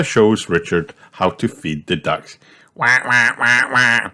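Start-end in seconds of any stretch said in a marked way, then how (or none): 2.7-4.1 higher little wah-wah cry; mock wail. A narrator's reading. Richard scared of the ducks, mock wailing. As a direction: lightly wail like a small rabbit. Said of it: "shouts Richard".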